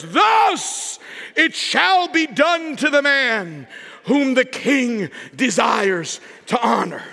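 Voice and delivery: slow proclaiming call like a herald; a slow town-crier call; herald's proclamation. Acted. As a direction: announce it slowly to the whole city. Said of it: "proclaiming these words".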